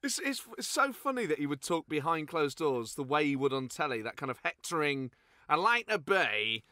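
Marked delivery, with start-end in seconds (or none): 5.5-6.6 slow drawn Clough voice; Clough impression. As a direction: drag it out like Clough. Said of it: "I always try and get Clough".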